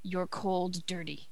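hushed, breathy poem reading; whispered dramatic reading. Pretend. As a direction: read it in a hushed, spooky whisper.

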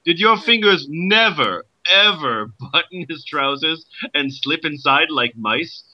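a light put-on Irish accent, questioning. Joyce questioning Nora in a light Irish accent. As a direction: ask it with a mild Irish lilt. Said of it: "My Irish accent is going away".

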